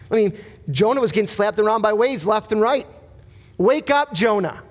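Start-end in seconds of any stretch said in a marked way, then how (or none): 3.6-4.6 sudden divine wake-up call; calling out as God. Acted. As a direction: rouse him like God shaking Jonah awake.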